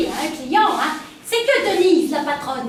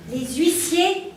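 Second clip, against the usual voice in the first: sensual voice. Acted. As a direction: read it like a hotline purr. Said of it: "La voix sensuelle?".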